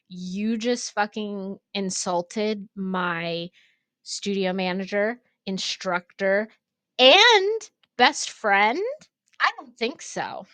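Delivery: squaring up to defend your friend; attack mode. Retold or imitated. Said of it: "like, attack mode".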